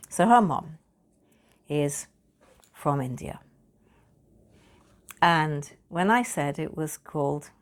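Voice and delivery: ordinary talk, nothing marked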